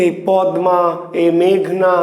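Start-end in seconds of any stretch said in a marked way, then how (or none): 0.3-0.8 "পদ্মা" as pad-ma, m audible; spelling pronunciation. Shown as a demonstration. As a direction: sound d then m in "পদ্মা". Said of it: "আমরা কি বলছি?".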